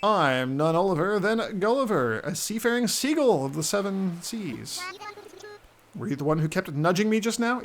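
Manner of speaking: high, loud, dopey sailor bird; goofy seagull voice. Acted. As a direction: play a dazed seafaring gull.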